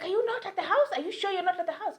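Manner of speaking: high, fast doubting challenge; suspicious landlord. Retold or imitated. Landlord doubting tenant's story, high quick challenge. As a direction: press him hard on where he is. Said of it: "He's like".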